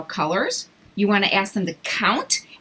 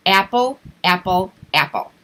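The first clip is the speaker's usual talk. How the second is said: quick repetition; 2 semitones lower than usual. Shown as a demonstration. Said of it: "have them repeat it a couple times quickly".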